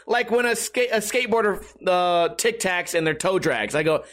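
ordinary delivery

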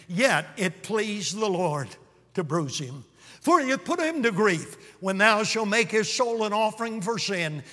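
measured, solemn Bible reading; scripture reading. Acted. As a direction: read the prophecy with reverence. Continues reading Isaiah 53.

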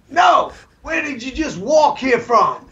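high, slow cop voice through laughter; laughing mock cop. Trooper asking where they walked from, laughing mock voice. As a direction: impersonate the cop while cracking up. Trooper asks a third time.

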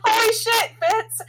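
high, loud scandalized reaction; shocked disbelief. Retold or imitated. Viewer reacting to a callous suggestion, shocked disbelief.

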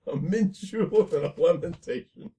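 put-on a host offering drinks in a mild Southern accent; mock Southern accent. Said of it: "that southern accent that we do".

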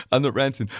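laughing through the denial. Real, not acted. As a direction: say it again while chuckling. Repeats denial while laughing.

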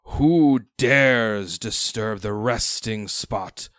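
slow, booming spectral voice; ancient rasping undead king. Acted. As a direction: loom over them as a ghostly undead king. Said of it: "And he says".

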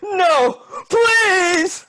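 pleading. Acted. Father begging the raccoons not to hurt him. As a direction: beg for mercy, panicked. Father begs as legs broken.

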